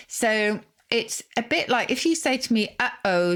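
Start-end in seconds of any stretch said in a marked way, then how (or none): 2.8-3.4 "Uh-oh" with the airflow stopped in the middle; "Uh-oh" broken by a glottal catch. Shown as a demonstration. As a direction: catch the throat shut between the halves of "Uh-oh". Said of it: "making that sort of stop of airflow".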